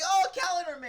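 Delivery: loud, high-pitched cry of recognition; retold excited yell. Fan recalling first sight of the character, retold yell. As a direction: yell it out as the name jumps high. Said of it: "I remember yelling out".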